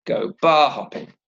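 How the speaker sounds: "bar" stressed and held, "hopping" falling. Shown as a demonstration. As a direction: hit "bar", ease off on "hopping". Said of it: "it's actually the same pattern".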